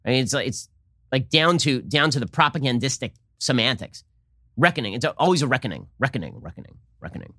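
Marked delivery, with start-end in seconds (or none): 4.6-7.3 mocking repetition fading out. Mocks repeated buzzword.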